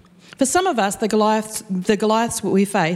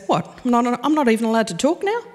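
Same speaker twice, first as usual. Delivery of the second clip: dismissive disbelief; faster than usual. Retold or imitated. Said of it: "David just goes".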